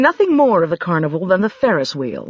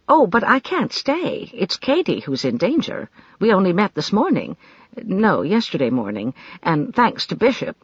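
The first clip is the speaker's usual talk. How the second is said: quick. Acted. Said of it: "She said quickly".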